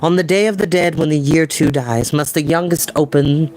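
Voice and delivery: story narration. Acted. Narrator reading the grail chapter to viewers, storytelling. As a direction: read it to an audience, vivid and even. Reads novel aloud.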